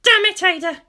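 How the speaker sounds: loud, high angry curse; angry hiss. Acted. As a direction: spit out the curse in anger. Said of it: "she hissed".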